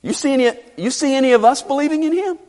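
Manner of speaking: high, haughty mock incredulity; hammed-up pompous scorn; self-important. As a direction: play a Pharisee looking down on the crowd. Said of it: "with self-importance".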